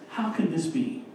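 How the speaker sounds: calm, even, curious question; wise question. Retold or imitated. Preacher voicing wisdom's calm question. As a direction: ask it calmly, as wisdom would. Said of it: "wisdom asks".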